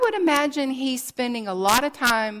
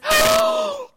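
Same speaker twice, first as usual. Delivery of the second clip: loud, high, sharp gasp of joy; excited gasp; 6 dB louder than usual. Acted. Peter reaching Jesus on the shore, excited high gasp. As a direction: gasp as if catching sight of a friend. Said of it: "He's so excited".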